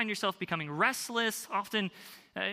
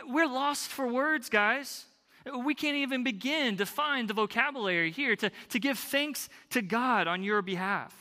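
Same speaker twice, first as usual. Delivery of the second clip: overwhelmed thanks; 4 semitones higher than usual. Retold or imitated. Paraphrasing Paul's overwhelmed thanks.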